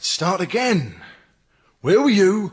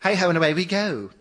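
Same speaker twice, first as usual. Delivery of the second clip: camp lightly voiced Larry Grayson; a touch of Larry Grayson's camp catchphrase delivery; faster than usual. Officer doing a Larry Grayson impression in interview, light camp. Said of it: "That's Larry Grayson".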